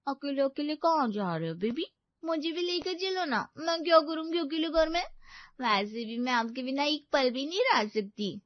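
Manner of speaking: put-on high, wheedling baby talk; sweetly whining girlfriend; clingy girlfriend. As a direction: beg to tag along, needy. Voices clingy Payal.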